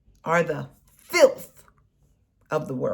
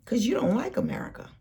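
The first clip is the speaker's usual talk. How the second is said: hissed accusing whisper; sudden whisper; 2 semitones higher, 5 dB quieter, much faster than usual. Real, not acted. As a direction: drop to a bitter whisper mid-rant. Accusing rant, drops to whisper.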